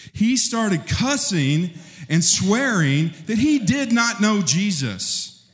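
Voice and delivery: a hint of a Texan drawl on cussing; Texan twang. Real, not acted. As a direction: let a light Texas twang slip in. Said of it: "That sounded pretty Texan".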